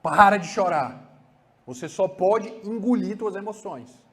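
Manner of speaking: put-on father ordering the child to swallow his emotions; repressive father. Shown as a demonstration. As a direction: command the child to stop. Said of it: "esse fala aqui".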